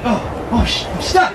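imitated sudden hookup. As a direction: act out realising you're hooked up. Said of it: "And he's like".

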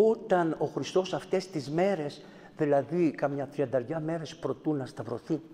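ordinary delivery

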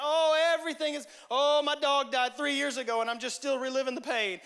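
high, loud overwrought wail; milk the pain for sympathy; overwrought drama. Retold or imitated. Drama Steve wailing at the prayer meeting, hammed-up. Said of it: "It's like everything needs prayer request".

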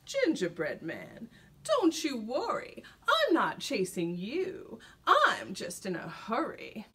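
slow, smooth and courteous; polite. Acted. Sly fox speaks politely to the gingerbread man. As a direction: soothe him, slowly, with false politeness. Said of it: "the fox said politely".

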